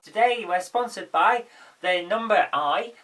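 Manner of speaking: husky voice from a cold; hoarse. Real, not acted. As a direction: talk through a sore throat. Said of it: "if I sound like I've got a frog in my throat".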